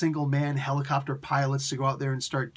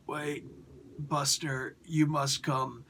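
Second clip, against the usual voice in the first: softer, slow, lightly voiced dying leader; weak Optimus; 4 dB quieter, slower than usual. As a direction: call him over faintly. Dying Optimus calls Buster.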